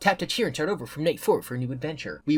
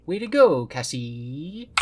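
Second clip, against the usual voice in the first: higher, cheerful robot friend voice; Roxy's voice; 3 semitones higher, 4 dB louder, much slower than usual. Acted. Roxy cheering Cassie after the robot dies, higher and bright. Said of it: "every time I say Cassie in Roxy's voice".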